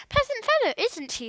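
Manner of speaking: high, mocking sarcasm; sarcastic. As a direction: sneer at him dryly. Philip mocks departed Joe.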